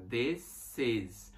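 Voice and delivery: This is with a crisp s at the end of This; This is, clean s; s sound in this is. Shown as a demonstration. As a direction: keep the s voiceless in This. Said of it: "Som de S".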